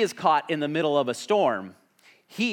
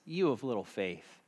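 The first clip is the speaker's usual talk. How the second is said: gentle, soft reassurance; soft compassionate tone; 6 dB quieter than usual. Retold or imitated. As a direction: say it kindly, like a caring friend. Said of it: "I think he's compassionate".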